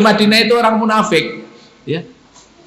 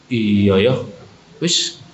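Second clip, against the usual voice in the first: mocking neighbour voice; 11 semitones lower, 3 dB quieter than usual. Mocking voice of the critics.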